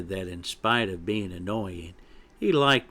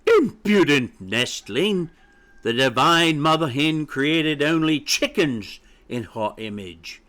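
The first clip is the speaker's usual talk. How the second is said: haughty hen, preaching indignantly; scolding mother hen; 3 semitones higher than usual. Acted. Mother hen rebukes her chick about his company, indignant.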